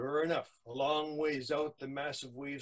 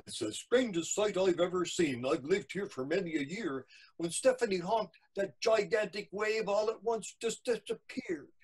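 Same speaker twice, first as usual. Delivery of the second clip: lightly voiced, higher-pitched eyewitness; storyteller acting astonishment; amazed witness; 6 semitones higher, 3 dB louder than usual. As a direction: marvel at what you saw. Witness account in the poem.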